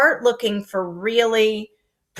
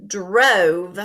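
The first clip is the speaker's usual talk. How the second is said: whisper; 4 dB louder than usual. Shown as a demonstration. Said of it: "fix both of my sentences".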